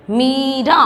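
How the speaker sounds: मीरा with a stretched first vowel; long ee. Shown as a demonstration. Teacher modelling a spelling word, मीरा with long ee. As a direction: draw out the ee in मीरा. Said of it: "इस तरह से आप शब्द का उच्चारण".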